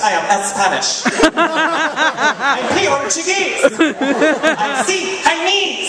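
slow, the I pulled apart from the country name; stressed letter I. Retold or imitated. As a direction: say I, pause, then the country. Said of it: "You don't say the letter I".

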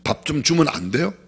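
quarrelsome edge on 밥 좀 주면 안 돼요; a demand dressed as a question; picking a fight. Shown as a demonstration. Pastor demonstrating a combative request for food, quarrelsome. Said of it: "이건 시비를 거는 거예요".

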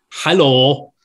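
put-on one-word greeting in a Welsh accent. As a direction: imitate a very Welsh dad. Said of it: "his dad's brilliantly Welsh".

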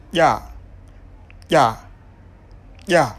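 "ya" made against the hard palate; palatal implosive. Shown as a demonstration. Teacher modelling a Pulaar consonant, palatal implosive "ya". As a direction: repeat implosive "ya" with tongue at the roof of the mouth. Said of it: "Palatal, une consonne dont l'articulation".

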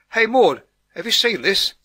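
high, loud holler; excited yell across the gardens; yelling back. A narrator's reading. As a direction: shout it over to the neighbour. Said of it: "yelled back Martha".

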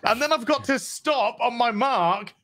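slow, drawn-out whiny complaint; slow complaining actor. Retold or imitated. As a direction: moan about the stunt, dragging it out. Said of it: "It's like".

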